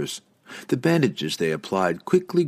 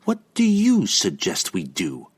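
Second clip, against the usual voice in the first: slow, sarcastic question. Acted. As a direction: needle him with mock deference. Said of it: "she prompted with more than a bit of sarcasm".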